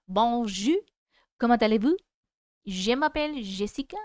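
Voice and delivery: demonstrating French phrases in a French accent. Shown as a demonstration. Streamer practises French for viewers, in French accent. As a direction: show off a little French accent. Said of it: "probably do a French accent".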